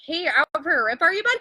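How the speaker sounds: put-on playful Canadian accent, lightly done; a hint of a Canadian buddy. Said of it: "Canadian is like".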